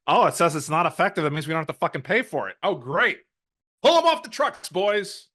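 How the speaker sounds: a hint of a nasal pencil-neck administrator; light whiny bureaucrat voice; nasally administrator voice. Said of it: "this nasally administration voice".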